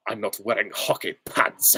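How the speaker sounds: actor impression at normal pitch; Timothy Dalton. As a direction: deliver the film line as a serious screen hero. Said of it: "It was Timothy Dalton".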